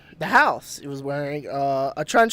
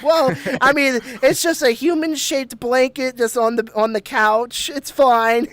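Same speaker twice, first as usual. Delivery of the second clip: imagined ghost voice; 6 semitones higher than usual. Retold or imitated. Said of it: "be like".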